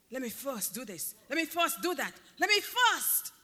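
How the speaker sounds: mock the excuse-makers' insistent first; stress on first. Preacher mimicking excuse-makers, hammering first. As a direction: let me first, each first punched, rising to a shout. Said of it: "Their emphasis was also on the word first".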